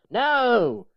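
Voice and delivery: big high yelled no; a sudden high, loud shout of no; scream. Acted. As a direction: scream it at him.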